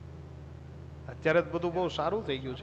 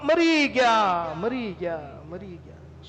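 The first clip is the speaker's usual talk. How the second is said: moaning complainer; much slower than usual. Retold or imitated. Grumbler moaning at the first monsoon rain, fading out. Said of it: "ત્યાં શું કે?".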